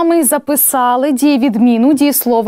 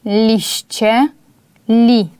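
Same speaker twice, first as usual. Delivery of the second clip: ordinary talk, nothing marked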